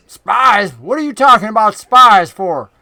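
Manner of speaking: lightly voiced southern goblin, loud; a hint of an indignant goblin, emphatic; Finch. Game master trying out the goblin's voice, loud mock indignation. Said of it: "I'm trying to find his voice for Finch".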